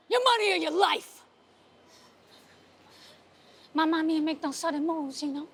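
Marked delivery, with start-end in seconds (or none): 0.1-1.2 a hint of a menacing robber; mugger's threat. Robber in the elevator.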